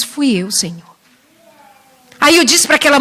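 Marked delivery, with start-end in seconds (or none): 0.0-1.0 ashamed confession. Acted.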